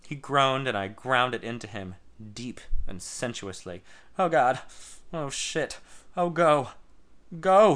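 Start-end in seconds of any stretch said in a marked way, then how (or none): 4.2-7.7 moans building to a loud, high cry of Go; moaning. Acted. Lover on the couch, moaning louder and higher to a cry. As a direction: let each Oh climb until the last Go breaks out. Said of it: "he moaned".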